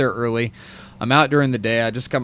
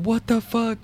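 retold freak-out; 9 semitones higher, 3 dB quieter than usual. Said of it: "I hear him going".

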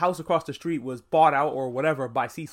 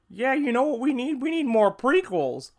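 sarcastic prequel fan; 9 semitones higher, 4 dB louder than usual. Retold or imitated. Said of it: "I'm not usually a person that's like".

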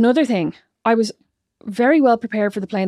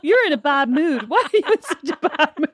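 higher, teasing imitation of the sister; mocking sister's inner voice; 4 semitones higher than usual. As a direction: play her smug inner voice. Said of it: "What you think to yourself is".

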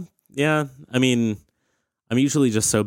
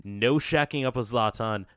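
loud rushed string of nos, shaking it off; flustered loud no; 3 semitones higher, 6 dB louder than usual. Acted. Coach loudly refusing the player's lion idea, flustered. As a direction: shut the idea down fast and loud.

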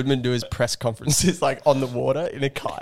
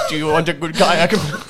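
put-on light Jamaican accent, playful; a hint of Jamaican lilt; 3 semitones higher, 3 dB louder than usual. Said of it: "say that in a Jamaican accent".

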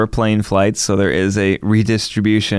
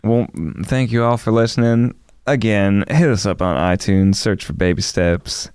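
sexy voice. Acted. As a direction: purr the sign-off sultrily. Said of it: "are you trying to do a sexy voice right now".

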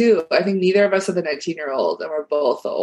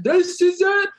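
high, slow hyped-up bro voice, laughing; slow high bro voice through a laugh; impression of men; 12 semitones higher, slower than usual. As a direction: ham up a karaoke dude. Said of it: "That's my impression of men".

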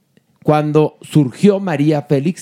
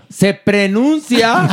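slow, raised-pitch mock correction; a singer; 4 semitones higher, much slower than usual. Colleague corrects the host's pronunciation, mock-pedantic. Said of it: "te voy a aplicar el cantante".

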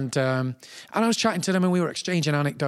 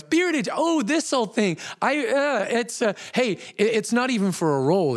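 high-pitched, hesitant Tom Hanks impression; high start easing down, bashful and stammering; kindly covering up; 7 semitones higher than usual. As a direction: play along kindly, searching for words.

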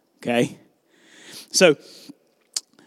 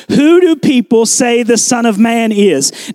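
slow, deliberate scripture reading; 4 dB louder, slower than usual. Acted. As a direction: read the question out slowly and firmly. Reads Jesus' question aloud, slowly.

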